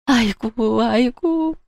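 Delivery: mock-tearful old woman wailing upward; fake wailing. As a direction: put on a showy crying wail. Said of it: "곡소리를 내며".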